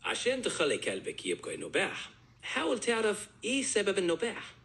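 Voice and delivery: Cairo dialect Arabic; Egyptian Arabic dialect. Shown as a demonstration. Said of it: "switch to more of an Egyptian dialect".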